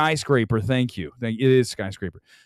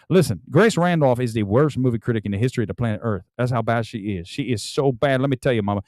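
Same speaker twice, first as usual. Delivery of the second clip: Dusty Rhodes; 3 semitones lower than usual. Pretend. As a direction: cut a mild Dusty Rhodes promo. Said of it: "now I sound like Dusty Rhodes".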